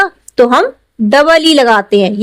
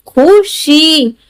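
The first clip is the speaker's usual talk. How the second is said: slow sounding out; 2 semitones higher, much slower than usual. Shown as a demonstration. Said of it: "पढ़ करके देखना है".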